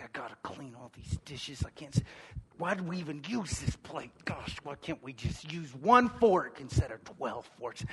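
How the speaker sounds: low, soft, put-upon muttering under the breath; grudging grumble. Retold or imitated. Husband at the kitchen sink, quietly grumbling about the dishes. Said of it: "do I sound like I enjoy what I'm doing".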